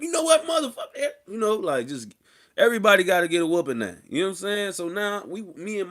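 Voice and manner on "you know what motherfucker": high, loud mock threat; mock angry parent. Mom turning on her kids, mock angry yell. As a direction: snap it like a furious mom.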